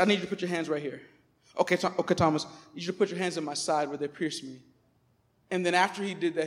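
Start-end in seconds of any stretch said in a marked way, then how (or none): 0.0-4.6 soft and quieter, tender invitation; gentle Jesus. Retold or imitated. Jesus gently inviting doubting Thomas, soft. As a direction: coax him gently to touch. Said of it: "But Jesus said".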